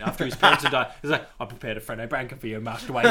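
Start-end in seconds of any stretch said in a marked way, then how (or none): 1.4-3.1 lightly voiced English butler; hint of a butler impression; Alfred. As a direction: play the attentive butler lightly. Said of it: "when Alfred comes".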